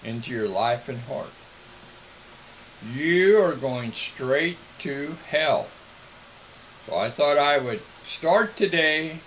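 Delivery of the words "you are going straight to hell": slow, measured, put-on calm; deliberately calm. Preacher telling listeners they face hell, deliberately calm. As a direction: spell out the warning slowly and coolly. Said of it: "I think I'm pretty calm today".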